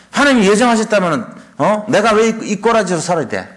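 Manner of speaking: a hint of a whining believer protesting God; mock indignant complaint. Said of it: "이런 식으로 한다니까". (투덜대며 따지는 흉내)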